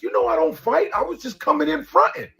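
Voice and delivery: high-pitched, backing-down talking dog; mock-meek dog voice; cowardly dog. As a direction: plead like a dog that won't fight. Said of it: "that dog was a bitch".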